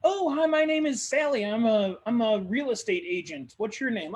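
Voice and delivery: bright high networking greeter; a chirpy stranger introducing herself; Sally the agent. Acted. Real estate agent greeting a stranger, high and chirpy. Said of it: "somebody goes".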